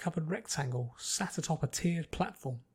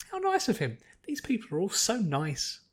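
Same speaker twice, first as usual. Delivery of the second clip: bubbly Pinky voice; 5 semitones higher than usual. Acted. Pinky's inner voice.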